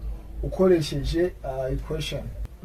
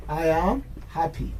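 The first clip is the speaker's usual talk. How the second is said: slow, word-by-word teaching delivery; slow model sentence; slower than usual. Shown as a demonstration. Teacher modelling an adjective sentence for learners, slow. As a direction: say it slowly for learners.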